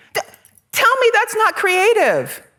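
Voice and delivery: fired-up, very high, swooping excited shout. Speaker addressing listeners mid-discussion, shouting excitedly. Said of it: "Sorry, I'm shouting. I'm excited".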